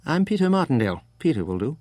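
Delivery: put-on lightly English-accented seatmate, lifted at the start; slightly English accent. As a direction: introduce yourself with a hint of an English accent. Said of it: "His accent was hard to place, something English in it".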